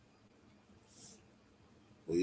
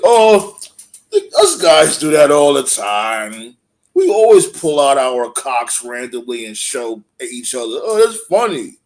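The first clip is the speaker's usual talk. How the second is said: mocking silly voice; 5 dB louder than usual. Mocking wrestler's odd claim.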